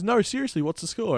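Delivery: put-on high, pleading old lady voice; a lightly voiced anxious fan; imitating old woman. Old lady pleading with the narrator outside the stadium for the score.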